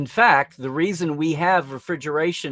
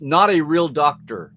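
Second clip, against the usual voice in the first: slow, emphatic mock disclaimer; 5 dB louder, slower than usual. Host quoting TV ad small print, slow disclaimer voice. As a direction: lightly put on a louder disclaimer read. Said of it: "put the disclaimer on ads".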